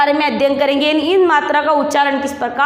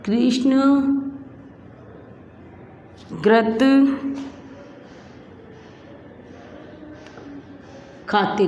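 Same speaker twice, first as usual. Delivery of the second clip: word by word dictation; 2 semitones lower, 6 dB quieter, slower than usual. Shown as a demonstration. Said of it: "मैं कुछ वाक्य लिखवाती हूँ".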